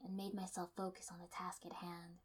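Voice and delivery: soft unvoiced whisper. A narrator's reading. The heroine steadying herself, whispered. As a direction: breathe the words out.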